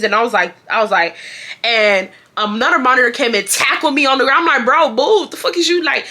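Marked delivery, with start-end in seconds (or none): 4.7-6.1 high-pitched indignant protest; retold confrontational outburst; mock outrage. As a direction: protest being grabbed, acted out. Retells confronting monitor who tackled her.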